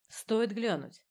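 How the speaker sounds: dry, precise report over a helmet radio; clipped like a scalpel, through a helmet. Acted. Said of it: "голос Алисы Ворон в шлеме был сухим и точным". (сухой голос в шлеме, как скальпель)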